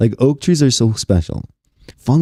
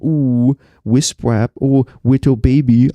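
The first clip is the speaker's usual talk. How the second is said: mock baby talk, lightly voiced and higher; 6 semitones higher, slower than usual. Teasing friends in a light mock baby voice. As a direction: coo it like talking to a baby. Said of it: "speaking like a baby".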